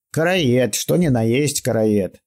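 put-on slow, emphatic old man voice. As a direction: stress ни, drawn out. Old man affirms nickname.

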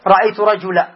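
رجلا cut to a bare -a ending; without tanween. Shown as a demonstration. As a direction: say رجلا as rajula, no final n. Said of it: "ما تقول".

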